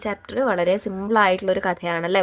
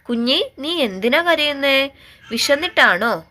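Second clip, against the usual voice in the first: higher-pitched, coaxing question to a kitten; child talking to a kitten, pitched up; asking crying kitten; 7 semitones higher than usual. Acted. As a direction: ask a crying little one what's wrong. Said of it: "കുഞ്ഞിയോട് തന്നെ ചോദിക്കാം".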